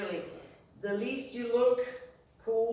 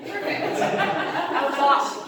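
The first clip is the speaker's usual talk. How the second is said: laughing; 5 semitones higher, 6 dB louder, much slower than usual. Real, not acted. Laughing boast.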